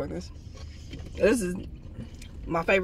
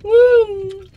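loud; 12 semitones higher, 5 dB louder than usual. Real, not acted. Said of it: "Why are you so loud?".

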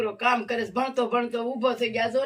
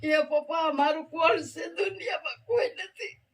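higher-pitched, plaintive retelling of a daughter's cry; retold tearful wail; 5 semitones higher than usual. Mother retelling her daughter's weeping to visitors, tearful retold wail. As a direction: voice climbing as she imitates the sobbed lament. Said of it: "રોવા માંડી બાપા".

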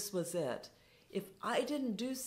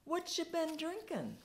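beaming question; 11 semitones higher than usual. Retold or imitated. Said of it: "still beaming".

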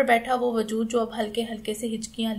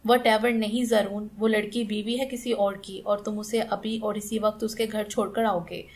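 commanding tone. Acted. Aunt ordering him to return the girl, commanding. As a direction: lay down the law. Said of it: "हुक्मी अंदाज में बोली".

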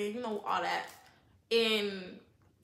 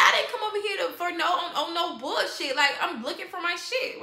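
exasperated, slightly raised protest; retold mad retort; 4 semitones higher than usual. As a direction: push back, fed up. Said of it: "I was mad by that part".

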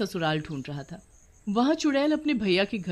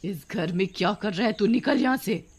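angry; 3 semitones higher, 4 dB louder than usual. Acted. Witch orders man out of brother's house, angry. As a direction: order the intruder out angrily. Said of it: "बहुत आग बबूला होती है".

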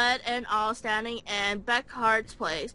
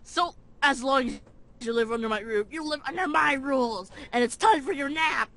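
grandma voice. Acted. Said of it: "you wanna voice the grandma".

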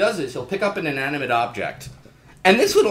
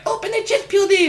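arm puppet voice; 7 dB louder than usual. Retold or imitated.

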